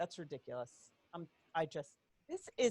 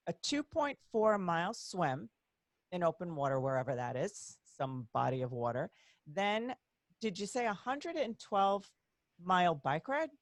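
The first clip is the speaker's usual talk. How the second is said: stretches every word of the distances for effect; elongating the words; 2 semitones lower than usual. Shown as a demonstration. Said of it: "I'm elongating the words".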